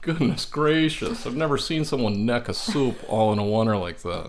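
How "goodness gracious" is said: amazed. Acted. Amazed reaction.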